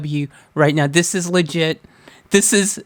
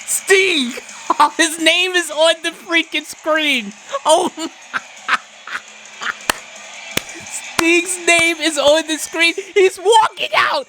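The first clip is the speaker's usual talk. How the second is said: excited; 9 semitones higher than usual. Real, not acted. Sting surprise entrance, squealing.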